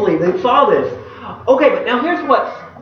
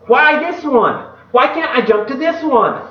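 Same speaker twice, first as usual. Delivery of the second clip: frustrated question; 5 semitones higher than usual. Retold or imitated. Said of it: "And we're thinking".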